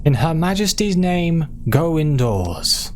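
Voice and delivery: hammed-up royal crier; mock herald's shout. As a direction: call the street to take cover.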